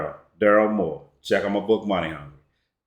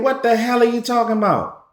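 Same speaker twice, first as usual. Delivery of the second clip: higher, slowing on I just bought this; outraged disbelief pitched up high; incredulous; 9 semitones higher than usual. Retold or imitated. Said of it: "And you thinking".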